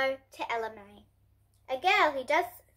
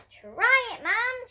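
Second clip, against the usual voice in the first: put-on much higher, louder childlike call; lightly voiced eager Ella; 11 semitones higher, 4 dB louder, much slower than usual. Ella urging Mum to try cartwheels, eager. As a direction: coax Mum like a cheeky kid.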